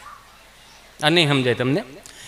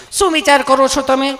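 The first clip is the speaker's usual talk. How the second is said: higher sweet nurse voice; loving nurse; 5 semitones higher than usual. Retold or imitated. Nurse gently asks Gabho what he is thinking, sweetly. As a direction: ask tenderly, teasing a little. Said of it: "તમે કેટલું પ્રેમથી પૂછો છો".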